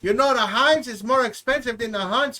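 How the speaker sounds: lightly put-on Hispanic accent as Carlos; a hint of a Hispanic accent; mock Hispanic accent. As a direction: play a bad Hispanic character, lightly. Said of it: "bad Hispanic".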